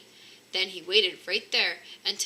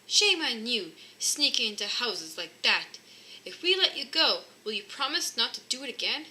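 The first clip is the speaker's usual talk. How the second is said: louder, finger-wagging scold; husband scolding the man in the chimney; 3 semitones higher, 5 dB louder than usual. Acted. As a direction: tell him off like a naughty child.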